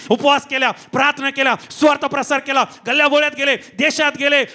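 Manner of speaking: relentless, building sermon cadence; impassioned preacher crying out to the congregation; full-force preaching. Acted. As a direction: pile up each phrase with rising urgency.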